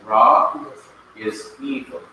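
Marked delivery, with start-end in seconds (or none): 0.0-0.7 "ra" said firmly with a long open vowel; pronunciation demo. Shown as a demonstration. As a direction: model "ra" for learners. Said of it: "that's how you pronounce it".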